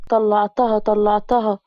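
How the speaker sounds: a touch of relieved joy, barely lifted; lightly voiced glad relief, close to the narrator's own voice; mildly happy. Girl tells the wounded man she got the bullet out, mildly happy. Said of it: "وبصيت له بسعادة".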